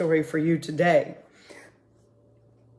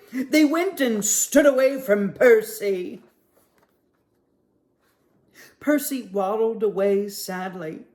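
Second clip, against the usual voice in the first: put-on lively storybook read-aloud for kids; reading to children. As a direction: read it like story time at the library. Librarian reads picture book aloud.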